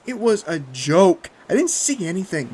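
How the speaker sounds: loud shout through laughter; laughing. A narrator's reading. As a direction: yell it while cracking up. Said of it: "Jeff said through maniacal laughter".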